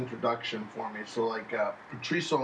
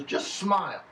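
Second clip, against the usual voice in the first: imitating coach; 7 semitones higher, slower than usual. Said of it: "He goes, he goes".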